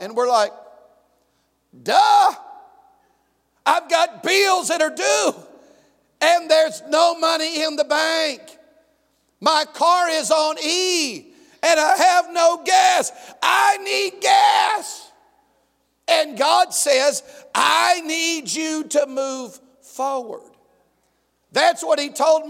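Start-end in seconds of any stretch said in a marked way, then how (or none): 1.8-15.1 mock-whiny list of troubles; whiny complaint. Believers' complaint acted out. 17.5-20.5 calm God voice. Acted. God's calm reply voiced.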